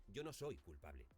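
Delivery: "soy" stressed, "culpable" falling low; weight on "soy", then a falling close. Shown as a demonstration. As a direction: lean on the word "soy". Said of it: "Es igual si acentuamos no, o soy, o yo".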